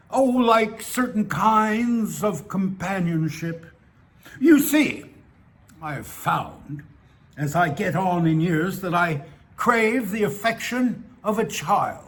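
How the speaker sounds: hesitant, self-excusing old man, lightly voiced; lightly voiced old bar acquaintance. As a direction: lightly act an old man justifying himself.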